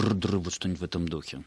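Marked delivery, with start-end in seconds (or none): 0.0-0.4 rolled "drr-drr" sound effect; imitated trilled noise. Shown as a demonstration. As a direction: imitate an onomatopoeic rumble with a rolled r. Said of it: "какой-то звук".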